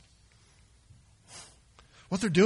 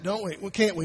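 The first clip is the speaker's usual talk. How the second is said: normal talking voice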